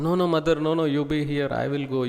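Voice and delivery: put-on a young calf insisting, urgent then settling; calf begging. Calf begs mother again.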